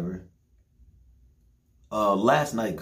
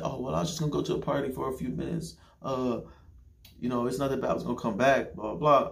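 mock girlfriend excuse; 5 semitones higher than usual.

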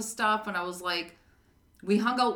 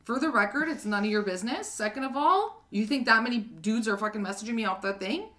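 mildly raised, indignant retort, a bit louder; retold telling-off; 2 semitones higher, 3 dB louder than usual. Narrator retelling how she told off her date, mock indignant. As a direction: give him a piece of your mind, half-acted.

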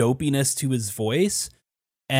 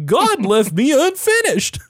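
high, loud, slow anguished wail; tormented creature; 11 semitones higher, 6 dB louder than usual. Retold or imitated. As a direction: moan like a half-made monster. Voicing the putty creature's lament.

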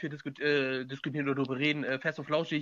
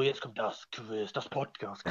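mock announcer; 5 semitones lower, 5 dB quieter, slower than usual. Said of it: "macht er irgendwann so".

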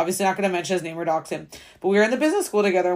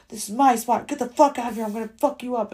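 a lightly voiced rude girl, a bit higher; mock angry girl; 4 semitones higher than usual. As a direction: mimic her hostile warning with a touch of attitude. Retold quarrel with rude girl.

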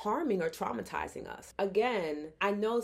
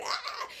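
put-on teen squeal. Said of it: "And they're like".

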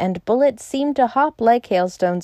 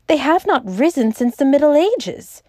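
higher, animated exclamation; crying out; 6 semitones higher, 3 dB louder than usual. A narrator's reading. Syme astonished at the rebel peasant, crying out. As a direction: protest it in raised-pitch disbelief. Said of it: "cried Syme".

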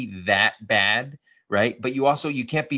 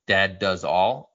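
slow repeated name; 3 semitones lower, much slower than usual. Shown as a demonstration. Host repeating a listener's username slowly. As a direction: read the name again slowly. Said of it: "is his name".

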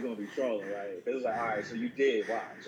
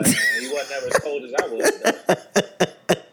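slow, louder, laughing scoff; mock Jordan dismissive; 7 dB louder, slower than usual. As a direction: wave off the rival slowly. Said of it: "He'd be like".

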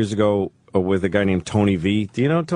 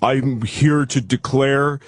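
slow, mock-formal proclamation; mock solemn declaration; 3 semitones higher, slower than usual. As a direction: declare it like an official denial, drawn out. Mock public denial of being gay.

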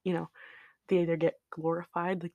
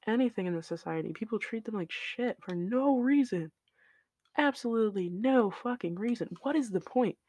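raised pitch, indignant venting; indignant, higher-pitched rant; exasperated rant; 5 semitones higher than usual. Real, not acted. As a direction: vent in real, baffled exasperation. Exasperated rant about treatment of women.

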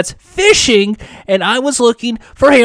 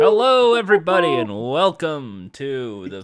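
sports announcer voice; 5 semitones lower than usual. Acted. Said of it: "Do a voice that sounds like a sports announcer".

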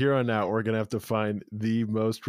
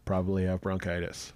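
sultry, a bit hoarse from being sick. Real, not acted. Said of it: "As you can probably tell by my sultry voice".

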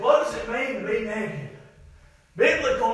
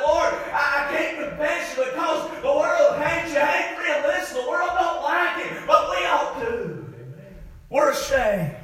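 full-voiced, driving sermon delivery; impassioned preaching; 3 semitones higher than usual. Real, not acted. Preacher urging the church to be ashamed of sin, impassioned preaching. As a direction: preach it hard to the congregation.

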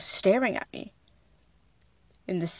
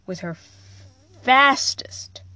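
breathy whispered word; slower than usual. Acted. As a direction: whisper it for suspense. Dramatic buildup in story.

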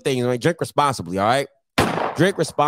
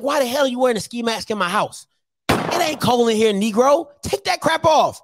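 higher-pitched, brisk mock scolding; scolding parent; 6 semitones higher than usual. Dad to son wearing a ski mask indoors, mock scolding. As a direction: tell off a kid in pretend outrage.

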